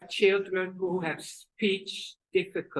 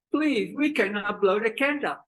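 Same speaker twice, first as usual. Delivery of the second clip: higher pleading mother; mouth twisted right; 4 semitones higher than usual. Acted. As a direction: beg out of one side of the mouth. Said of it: "Twisted to the right".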